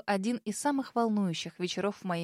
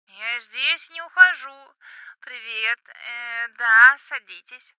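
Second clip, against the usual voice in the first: shouting over music; 9 dB louder, much slower than usual. Acted. Drunk friend shouting in club.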